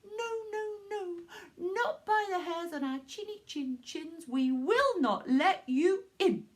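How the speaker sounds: high, tearful little pigs crying no; squeaky pigs pleading, then slowing firmly; little pigs' voice. Acted. Three pigs refuse the wolf.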